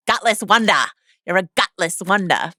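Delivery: hammed-up Australian insult; terrible Australian accent. Quoting a Strictly Ballroom character, mock Australian accent. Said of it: "in the thickest Australian accent of all time says".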